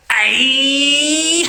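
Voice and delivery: a sharp, high "Aye" flung over the shoulder; sudden call out. Retold or imitated. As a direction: snap round and call out to startle them. Driver turns, startles the boys.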